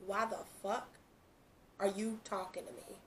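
half-whispered, fading into breath; a scoffing aside under the breath; hushed incredulous retort. Retold or imitated. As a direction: mutter it in disbelief, voice dropping away. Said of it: "it's like the energy I'm getting is".

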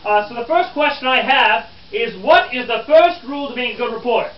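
lively, emphatic quizmaster; schoolmasterly reporter. Acted. Reporter quizzing his good students on the pamphlet, schoolmasterly. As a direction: address the room like pupils facing a quiz.

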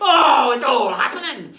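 loud, high, drawn-out cry; exuberant crowing. Acted. Pirate carried away after his joke, gleeful holler. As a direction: holler it slowly with glee.

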